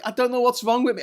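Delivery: high, strained helpless squeal; tearful-with-laughter voice, put on; imitated helpless giggling. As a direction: reenact being unable to stop laughing. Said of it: "I just keep bursting out laughing".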